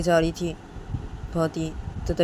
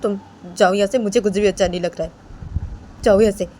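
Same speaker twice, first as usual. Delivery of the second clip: upset dismissal; 3 semitones higher, 5 dB louder, faster than usual. Acted. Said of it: "उस लड़के को बोलती है".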